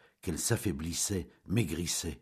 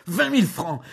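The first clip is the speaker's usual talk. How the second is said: indignant cry; 12 semitones higher, 10 dB louder than usual. Acted. Julien repeating the sum.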